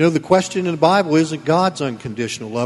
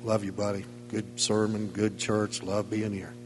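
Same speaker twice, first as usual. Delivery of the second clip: much softer and lower, a casual pat on the back; mock congregant praise; 5 semitones lower, 12 dB quieter than usual. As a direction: toss off easy compliments at the door. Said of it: "pat me on the back".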